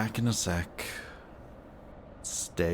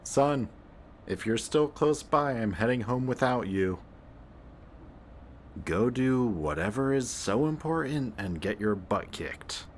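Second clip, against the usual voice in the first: calling out; 6 semitones higher than usual. Acted. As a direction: shout after someone who's already gone. Calling out to vanished partner.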